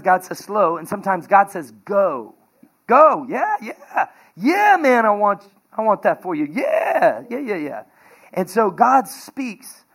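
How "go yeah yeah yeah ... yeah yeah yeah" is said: emotional. Real, not acted. Preacher emotional about God's go.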